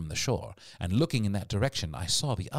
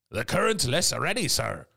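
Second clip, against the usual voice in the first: higher-pitched sailor's report; crewman calling out; 7 semitones higher, 3 dB louder than usual. A narrator's reading. Crewman Gray reporting to the captain, raised voice. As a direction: call it up to a superior officer.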